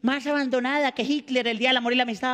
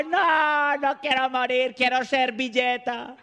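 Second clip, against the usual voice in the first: mock wail of a doomed napkin; lightly voiced tiny victim, drawn-out plea; crying-out napkin; 2 semitones higher, slower than usual. Napkin on the floor begs not to die, mock wailing. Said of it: "la servilletica ahí gritaba".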